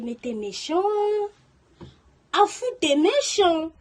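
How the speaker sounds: wailing, slow reproach; hurt accusation. Retold or imitated. Girl accusing her boyfriend over the phone, wailing and hurt. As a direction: cry out the hurt at him.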